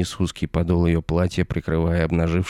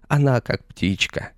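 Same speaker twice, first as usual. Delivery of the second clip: put-on old man munching as he speaks; chewing while talking; 6 semitones higher than usual. A narrator's reading. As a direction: mouth full of berry. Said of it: "деловито пояснила борода в интервале шамкающих звуков".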